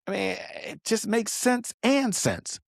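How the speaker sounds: plain; said once at pace. Shown as a demonstration. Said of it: "Let me say that again a little slower".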